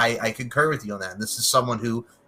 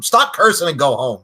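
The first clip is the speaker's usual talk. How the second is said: louder, higher mock yell; retold movie yell; 4 semitones higher, 8 dB louder than usual. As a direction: quote the exasperated yell from the film. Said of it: "he just yells at him".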